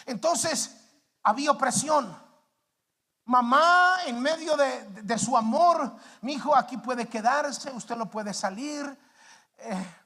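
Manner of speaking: loud, high preacher's voice, slow on key words; fervent preaching. Acted. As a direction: preach it with full force from the pulpit. Testimony rising to preaching.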